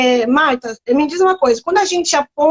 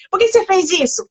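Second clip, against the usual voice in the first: a mock scolding question to the child; 4 semitones higher than usual. Mother imitating a parent scolding the child, lightly scolding. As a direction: pitch it up a bit like a parent already telling off. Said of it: "Já dando bronca".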